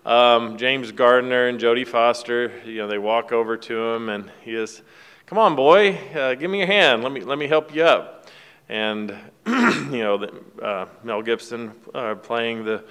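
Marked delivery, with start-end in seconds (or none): 5.2-8.2 put-on lifted, hearty call of an old man offering help; a hint of a cheerful father reaching down; father calling down to his son at the cliff edge, coaxing; friendly father voice.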